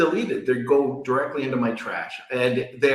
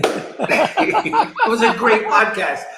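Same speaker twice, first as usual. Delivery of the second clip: laughing through the words, higher and louder; 9 semitones higher, 4 dB louder than usual. Real, not acted. Podcaster joking about his flattering AI interviewer, laughing. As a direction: say it while cracking up, high-pitched.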